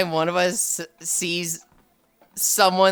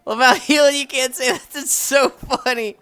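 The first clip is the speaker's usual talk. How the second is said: high, loud hammed-up repeat; loud mock echo; 7 semitones higher, 6 dB louder than usual. Shown as a demonstration. Streamer demonstrating the loud joke repeat to chat, loud mock voice. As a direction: shout it back like the joke thief. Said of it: "Do it, please".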